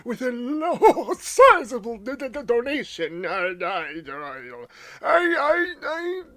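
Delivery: high, laughing, stammering mayor voice; imitating the mayor. Mimicking the game mayor thanking players for a donation, high and stammering. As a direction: gush and stutter through the thanks like the flustered mayor. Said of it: "I love his voice actor. He's just like".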